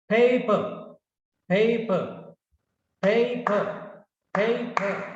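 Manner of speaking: "Paper" in two distinct beats; syllable by syllable. Shown as a demonstration. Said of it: "Two syllables".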